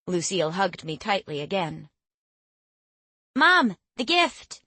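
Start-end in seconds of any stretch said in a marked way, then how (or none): 3.4-4.6 high, eager, drawn-out call; bursting with excitement; excited. Acted. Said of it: "jumping up and down excitedly".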